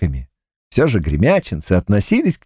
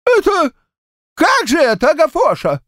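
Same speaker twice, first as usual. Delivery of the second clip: put-on high, quavering old man's voice, much higher; trembling old man. A narrator's reading. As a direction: ask it as a scared old grandad with a wobbling voice.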